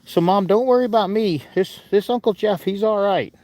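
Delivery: lightly voiced pet speaking up; playful put-on animal voice reassuring Mom; Finley. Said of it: "All right, Finley. Well, thanks for that".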